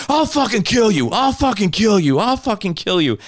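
high, loud parody of a screamed threat, fading at the end; mock threat. Mimicking the driver threatening to kill him, high and loud. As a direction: shriek the threat like a cartoon thug.

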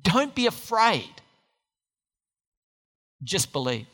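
gentle reassurance. Acted. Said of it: "Jesus told him".

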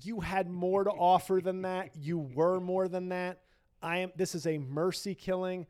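high, gentle pretend farewell; mock tender mercy killing. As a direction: soothe the dying career, mock solemn. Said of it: "do I go chief and say".

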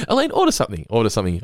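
a hint of a desperate waiter; mock pleading. Waiter nudging Elaine to order, mock urgent. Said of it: "And Joe's like".

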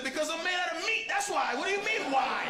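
high-pitched, exasperated comeback; indignant. Acted. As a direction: argue it as if it's obvious. Acted argument over needing sunscreen.

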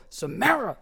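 re-enacted scolding call; angry dad. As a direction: call the child's name like a dad who's really mad. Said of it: "if I'm really mad and I go".

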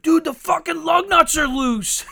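high, loud laughing yell; mock panic over loose lug nuts; freaked-out boss. Boss freaking out about the loose lug nuts, laughing yell. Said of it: "freak the fuck out and be like".

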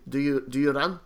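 lightly imitated chef, Afrikaans-sounding accent; Mehmet, accidental Afrikaans accent. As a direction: ask it in a wobbly Afrikaans-like accent. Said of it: "I sound Afrikaans when I was doing that impersonation".

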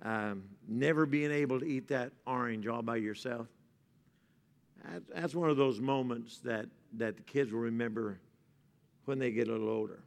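soft, low sermon voice; tender preaching. Real, not acted. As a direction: speak gently about mothers.

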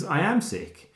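softly voiced, understated menace; calm. Film fan quoting the character's private thought, quietly calm. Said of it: "his character ... is so calm".

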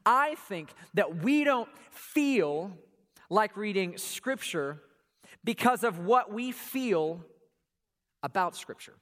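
slow, weighty, every word laid down; slow emphasis. Shown as a demonstration. Pastor slows down to stress his point. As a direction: spell the point out slowly. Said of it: "Let me say that again".

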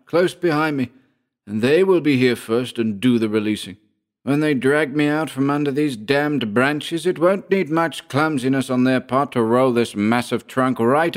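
high-pitched character voice, measured threat; quietly menacing Georg. A narrator's reading. Georg warning his pinned enemy of his men, quiet menace. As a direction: threaten him with controlled relish. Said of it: "Then he answered quietly".

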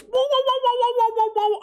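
very high woo-woo dog whimper imitation; mock high dog howl; high-pitched dog yelps. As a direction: squeak like a dog dreaming. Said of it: "it's high-pitched".

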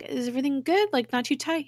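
high, lightly mock-caring voice; solicitous checking. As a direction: ask sweetly, checking on a patient. Voicing Coulson checking on bandage.

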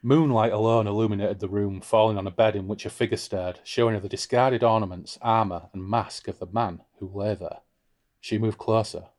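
measured read-aloud narration; story narration. A narrator's reading. Reads the novel's narration.

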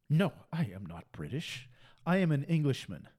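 lightly put-on English accent; imitated English accent. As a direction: imitate an Englishman firmly correcting someone. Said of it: "he's got this accent".

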